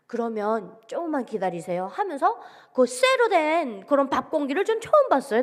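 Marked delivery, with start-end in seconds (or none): 0.9-1.9 lower, softer, calm request; quietly steady, imitating a composed helper. Server about to pack food for defectors, calm and low. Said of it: "그분이 굉장히 침착하셨어요".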